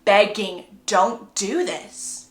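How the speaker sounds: loud start, slowing to a drawn-out plea; acted desperate begging; pleading. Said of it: "Bella is pleading".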